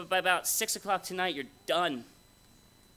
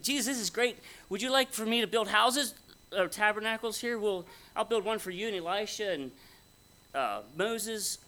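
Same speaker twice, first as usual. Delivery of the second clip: higher-pitched, mildly excited imitation; excited Peter; 4 semitones higher than usual. Peter to Jesus on the mountain, imitated mild excitement. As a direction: play an eager disciple, lightly. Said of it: "Peter gets all excited".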